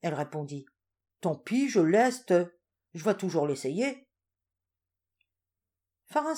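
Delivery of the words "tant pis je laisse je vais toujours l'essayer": slow, louder obstinate answer; old woman refusing to give up the cure; stubborn reply. Acted. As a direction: dig your heels in slowly.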